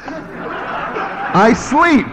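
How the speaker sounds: chuckling through a drowsy "I sleep"; lazy yawn of a line, laughing; laughing mock sleep. Preacher teases Mike with a laughing sleepy quote. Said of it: "That'll be ten bucks from you".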